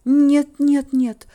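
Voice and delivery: high, loud cry of refusal; alarmed high-pitched exclamation; exclaimed protest. A narrator's reading. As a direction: burst out protesting. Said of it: "воскликнула я".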